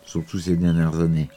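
ordinary talk

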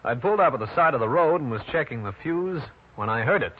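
steady first-person detective narration; hard-boiled narration. A narrator's reading. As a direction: tell the case like an old radio private eye. Detective narrates his own case.

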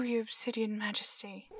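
soft loving whisper. Acted. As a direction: whisper sweetly to a pet. Whispering to cat.

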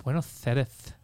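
"Buenos Aires" lisped as "Buenoth Airth"; lisping Spanish accent. Retold or imitated. Showing the Castilian lisp, lisped "Buenos Aires". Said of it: "you have the Spanish, like".

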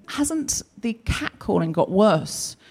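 slow, drawn-out worried question; lightly voiced concerned friend, slow; a hint of sympathetic gossip, slow. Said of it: "Ellen was saying to me".

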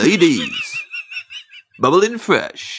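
slow, sliding amateur MC call; garage MC attempt. Shown as a demonstration. Comedian trying the garage voice on request, clumsy MC. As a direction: swoop drawn-out words like a bad garage MC. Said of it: "have a go at the U K garage voice".

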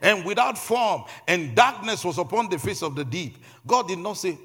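forceful preacher telling the creation story; impassioned preaching. Real, not acted.

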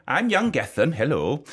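lightly put-on Welsh accent. Podcaster playing his co-host as a boy, mock Welsh accent. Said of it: "this is my Welsh accent".

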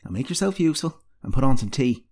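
put-on bossy old mentor giving orders; ordering. A narrator's reading. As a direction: put a young apprentice in her place. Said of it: "ordered the healer".

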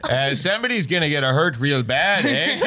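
lightly mocked Fargo-Maritime accent; hint of a folksy northern accent, lifting on the tag; Fargo-style accent. Co-host riffing on the dad joke in a mock Fargo accent. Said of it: "like somebody from Fargo".

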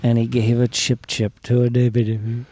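preaching. Acted. Mock scripture reading.

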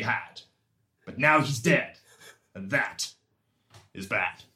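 earnest amateur poet reading his verse; mock poem recital. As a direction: recite the bad poem with solemn gravity. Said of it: "Is that another one of your poems".

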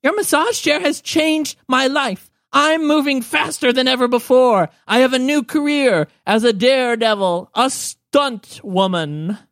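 high, excited gnome crone voice; boastful old gnome woman. Acted. Gnome woman boasting of her daredevil career, high and proud. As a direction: proclaim it high, stretching the final words.

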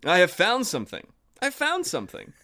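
high, loud eager call; excited cry. A narrator's reading. Oshpottle crying out to his brothers, high excited shout. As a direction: shout out the lucky find. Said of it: "cried he".

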